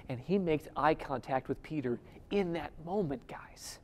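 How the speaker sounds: hushed whisper to the congregation. Real, not acted. Preacher whispering to the congregation about Jesus's look. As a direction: draw them in, barely breathing it. Hushed moment of eye contact.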